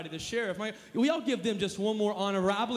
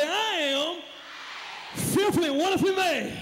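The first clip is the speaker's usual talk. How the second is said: a touch more swagger and punch; 7 semitones higher than usual. Shown as a demonstration. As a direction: strut the words out confidently. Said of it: "say it with some swagger".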